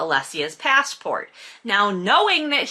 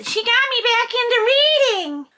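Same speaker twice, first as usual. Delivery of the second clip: very high, strained comic whine; exasperated squeal; 3 dB louder than usual. Real, not acted. Exasperated confession about the author.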